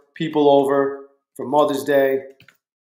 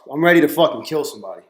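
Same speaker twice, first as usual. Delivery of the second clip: fast, louder angry burst; venting rage over the flowers; furious; 6 dB louder, faster than usual. Real, not acted. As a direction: blurt the threat out in real fury. Seething about missing flowers.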